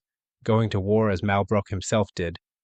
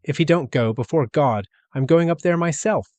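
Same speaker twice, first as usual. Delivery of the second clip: raised, higher threatening voice; aunt's threat; 7 semitones higher, 4 dB louder than usual. A narrator's reading. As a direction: threaten to go up herself. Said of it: "the ant said".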